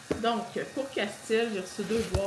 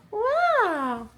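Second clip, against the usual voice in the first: high loud wow; excited wow; 13 semitones higher, 7 dB louder than usual. Real, not acted. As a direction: gush at the costume. Admiring child in dress. (émerveillée)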